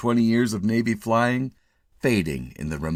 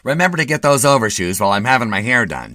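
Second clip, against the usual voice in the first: fussing wife; 3 semitones higher, 9 dB louder, faster than usual. A narrator's reading. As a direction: fret over him like a worried wife. Wife instructs.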